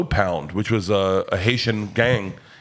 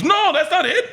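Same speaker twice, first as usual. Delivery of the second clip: imitated black guy. Black guy's punchline.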